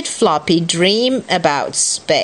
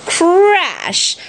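high, sudden storybook crash; high exclaimed impact word; dramatic crash; 10 semitones higher than usual. Acted. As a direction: punch it out as a sound effect. Story sound effect read dramatically.

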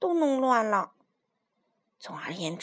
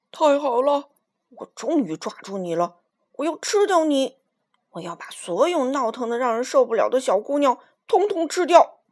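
fierce; 6 dB louder than usual. Acted. Lion gloating over caught Minus, fierce loud threat. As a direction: threaten to eat her, louder and louder. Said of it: "凶狠地说".

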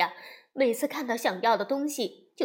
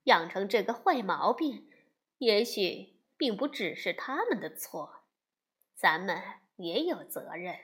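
calm mother; 2 semitones lower than usual. Acted. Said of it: "熊妈妈平静地喝着茶，说道". (熊妈妈平静地劝熊爸爸)

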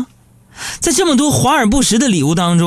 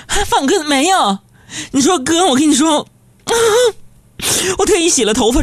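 indignant coworker; 7 semitones higher than usual. Retold or imitated. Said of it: "白了我一眼说".

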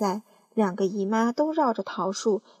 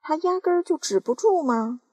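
raised, excited shout; aunt shouting at the growing peach; 7 semitones higher, 4 dB louder than usual. Acted. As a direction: call it out high. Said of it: "喊叫着".

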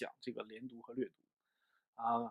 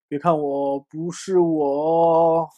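playful denial; 3 semitones higher, 12 dB louder, much slower than usual. Acted. Skit reply denying being best teacher.

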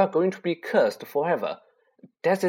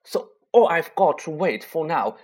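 feverish; 4 semitones higher, 4 dB louder than usual. Acted. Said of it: "Harry went on feverishly".

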